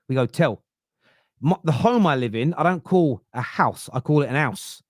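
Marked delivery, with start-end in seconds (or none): 0.3-0.6 "Tell" with the r dropped, one clipped syllable; Southern Tell. Shown as a demonstration. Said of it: "It's how we talk". 4.3-4.8 "an house" with no h, said "an 'ouse"; dropped h. Shown as a demonstration. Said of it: "like with a capital A".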